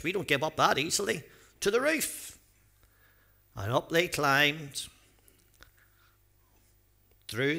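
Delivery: lively storybook reading with acted voices; reading a story to children. A narrator's reading. Pastor reading a Bible story to children, lively storytelling. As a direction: read it out like a picture book for the kids.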